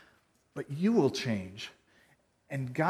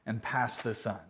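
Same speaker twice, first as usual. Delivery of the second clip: mock chain post; 5 dB louder than usual. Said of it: "I saw this on Facebook".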